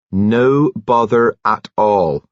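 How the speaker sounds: bustling, chirpy nurse; cheerful nurse voice. A narrator's reading.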